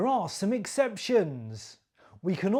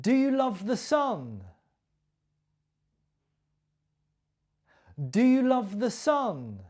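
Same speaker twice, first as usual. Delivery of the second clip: "you" raised and stressed, the question falling; teacher models the question, stressing "you"; 4 semitones higher than usual. Shown as a demonstration. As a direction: hit "you" high in "Do you love the sun?". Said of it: "my stress and my intonation".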